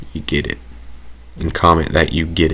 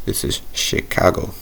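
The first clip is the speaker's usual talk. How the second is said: whispered Chicago accent on the city name; 5 dB quieter than usual. Shown as a demonstration. Streamer whispering the city name in local accent. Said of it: "I have to say it like that".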